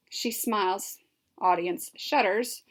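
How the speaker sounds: usual speaking voice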